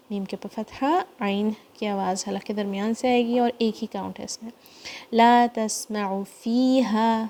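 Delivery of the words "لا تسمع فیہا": slow tajweed recitation, lengthened vowels. Shown as a demonstration. Teacher reciting the verse slowly for students. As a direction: chant it slowly. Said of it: "فی to count".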